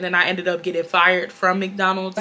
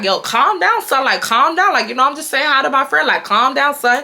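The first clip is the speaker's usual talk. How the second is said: higher mock New York voice, brushing off the manager; Chuck's New York talk; 5 semitones higher than usual. Chuck tells the manager to calm down, in a mock New York voice. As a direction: play a Houston guy faking New York cool. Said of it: "how Chuck give it up".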